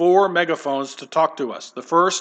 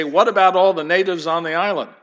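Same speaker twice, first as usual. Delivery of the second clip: skeptical friend; 2 semitones higher, 5 dB louder than usual. Acted. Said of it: "to a skeptical friend".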